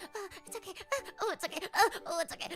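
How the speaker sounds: acted pain. Patient reassuring the panicking nurse through pain, strained and building. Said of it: "I was just in pain".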